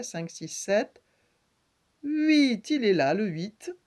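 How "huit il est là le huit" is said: triumphant counting. Shown as a demonstration. Teacher completing the count for pupils, high and loud. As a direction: call out "huit" as the long-awaited answer. Counting aloud, finds the eight.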